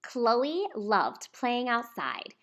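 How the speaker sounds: slow, hushed storybook opening; story narration. A narrator's reading. Reading a picture book aloud to children, slow and hushed.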